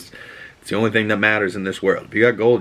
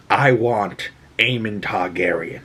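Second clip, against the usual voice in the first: grim queen's line. Retold or imitated. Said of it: "she says the one and only line".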